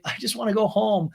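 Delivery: high, lightly tearful imitation; mock crying. Recapper imitating Ariana crying to Lisa, mock tearful. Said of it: "And she's crying".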